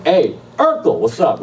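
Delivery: put-on high drunken holler across a party; yelling. Drunk guy spots actor across the party, high taunting yell. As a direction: call out high to someone far away. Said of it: "I'm yelling".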